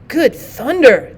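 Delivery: slow, drawn-out astonished cry; startled exclamation. Acted. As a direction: gasp it out in disbelief. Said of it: "they ejaculated".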